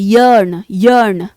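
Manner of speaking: यर्न repeated, each opening on a Y; Y at start. Shown as a demonstration. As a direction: model यर्न twice with the Y glide. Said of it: "वाई से start हो रहा है". (यर्न, हर बार य की आवाज़ से शुरू)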